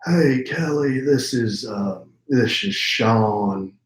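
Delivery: a hint of a slow Texas drawl, easing into each word; Sean voice. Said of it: "now I'm going into my Sean voice".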